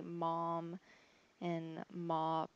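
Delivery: "mom" and "mop" with a rounded O; non-Michigan short O. Shown as a demonstration. Showing how other states say it, non-Michigan O. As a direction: open the mouth differently for "mom" and "mop". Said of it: "stress myself to say it like that".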